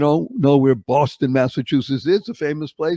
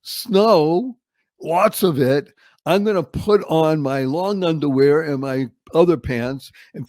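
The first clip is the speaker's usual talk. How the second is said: put-on the boy thrilled at the fresh snow; excited kid. Boy planning to play in the snow, mildly excited. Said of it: "it was".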